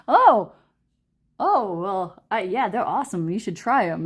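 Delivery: taken-aback New York boyfriend, lightly imitated; tough-guy accent. Boyfriend recommending them to girlfriend, mild New York accent. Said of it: "He talks like this".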